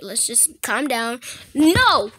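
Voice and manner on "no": sharp shout. Real, not acted. Shouted refusal.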